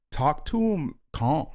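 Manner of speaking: put-on slow it down and soften like talking to a kid; calm, slow voice. Shown as a demonstration. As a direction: model calmness by saying it calmly. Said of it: "talk to 'em calm".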